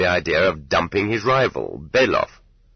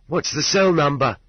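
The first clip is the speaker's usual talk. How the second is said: pitched up high in sudden alarm; alarmed question; 9 semitones higher than usual. Acted. Prisoner alarmed at the cell number. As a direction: ask it startled and worried. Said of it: "he asked in alarm".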